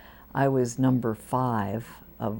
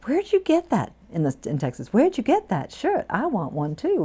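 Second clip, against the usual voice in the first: excited admiring colleague; 9 semitones higher, 4 dB louder than usual. Retold or imitated. Colleagues admiring her shirt.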